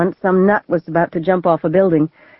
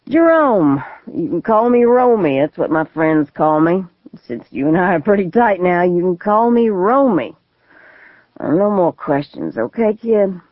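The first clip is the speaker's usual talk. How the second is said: put-on drunk crazy man. Gunman introduces himself.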